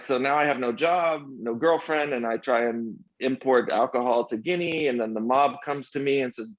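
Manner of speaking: lightly imitated French accent, comic retelling. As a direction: tell the woes as a French friend. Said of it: "I'll do my best French accent here".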